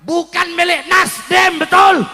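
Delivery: forceful call-and-response rally speech; fiery oration. Real, not acted. Preacher telling crowd no party owns Indonesia, fiery oration. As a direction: hammer each phrase, then punch the check to the crowd.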